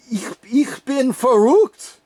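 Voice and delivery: mock German whisper. Confessing in German to Mister Bean, whispered. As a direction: whisper it like a crazy secret. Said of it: "I just said".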